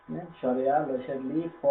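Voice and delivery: আ, লি, ফ said apart, one by one; spelling out syllables. Shown as a demonstration. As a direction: break আলিফ into আ, লি, ফ. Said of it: "এখানে ফ দিয়ে উচ্চারণ করতে হবে".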